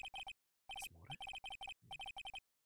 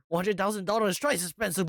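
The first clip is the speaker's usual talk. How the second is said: insisting; 6 semitones higher, 12 dB louder than usual. Acted. Character insisting on debt.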